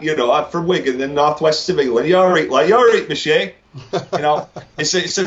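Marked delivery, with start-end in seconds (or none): 0.3-3.5 thick Wigan talk, rising at the end; Wigan accent. Shown as a demonstration. Guest showing host how his small town talks, broad Wigan accent. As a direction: demonstrate broad northwest England accent. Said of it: "they talk a little bit funny like that".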